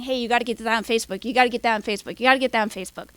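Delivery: lightly mimicked pestering trustee; a touch of badgering, imitated; imitated nagging. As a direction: repeat it insistently, like a mild mock nag. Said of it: "breathing down my back saying".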